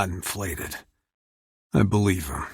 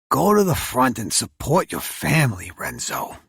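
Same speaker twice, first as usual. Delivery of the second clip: put-on gruff older man; 5 semitones higher, 3 dB louder than usual. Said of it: "a gruff voice says beside me".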